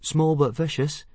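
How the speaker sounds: put-on high boy's voice chiming in; helpful. A narrator's reading. Boy backing his friend before the instructor, helpful. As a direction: pipe up helpfully, pitched high. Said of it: "added Fishlegs helpfully".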